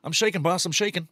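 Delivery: lightly voiced convict answering his boss; hint of a worn-out chain-gang prisoner; mock prisoner. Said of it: "Cool Hand Luke?".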